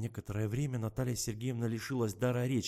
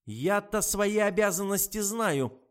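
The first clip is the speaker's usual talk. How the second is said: wheezed; 10 semitones higher, 8 dB louder, slower than usual. Acted. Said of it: "просипел врач".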